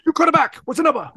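very high mock screaming in a Chinese accent; Lou. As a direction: rant at a voicemail, hammed-up Chinese accent. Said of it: "he's screaming at this voicemail".

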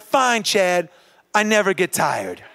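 slightly firmer, still low and weary; trying to mean it. Retold or imitated. Runner told to say it like he means it, weary slight firmness. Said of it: "say it like you mean it".

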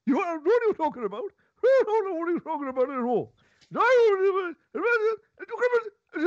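excited arguing. Acted. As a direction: argue it wildly. Playing a singer-actress role, excited argument.

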